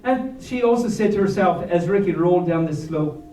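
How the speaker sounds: lively storybook read with rhyme; reading to children. A narrator's reading. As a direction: read the rhyming story to the kids. Reads picture book aloud.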